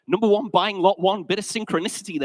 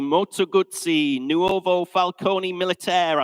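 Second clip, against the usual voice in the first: slow, drawn-out attempt at an Italian accent; finest Italian accent; slower than usual. Shown as a demonstration. Auctioneer testing his pronunciation of the bike's name, Italian accent. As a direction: have a careful go at an Italian accent. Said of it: "That was my finest Italian accent".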